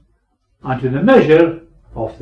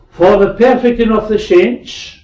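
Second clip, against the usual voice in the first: emphatic point; 6 semitones higher, 7 dB louder than usual. Acted. Listing three points, emphatic.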